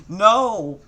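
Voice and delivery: a full-throated shout of no; scream. Acted. Naruto horrified he keeps rhyming, high loud scream. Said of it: "Naruto screamed in his mind".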